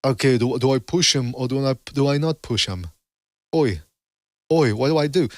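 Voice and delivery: put-on British accent, badly done; mock a hesitant boxer in a bad British accent. Voicing a boxer unsure whether to push, bad British accent. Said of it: "as bad as my British accent".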